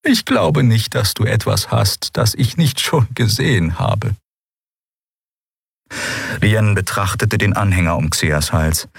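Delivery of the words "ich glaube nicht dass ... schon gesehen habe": put-on old Draxyl healer. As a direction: speak as the ancient gentle alien doctor. Alte Draxyl Xea spricht. (hohe, langsame, fremdartige Stimme einer alten Heilerin)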